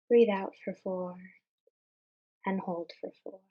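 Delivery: measured meditation guide with long pauses; guided meditation. Real, not acted. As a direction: guide listeners calmly, phrase by phrase, leaving room to breathe.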